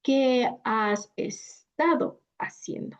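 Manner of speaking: "¿Qué has estado haciendo?" run together; linked vowels. Shown as a demonstration. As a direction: connect every vowel boundary. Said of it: "let's say".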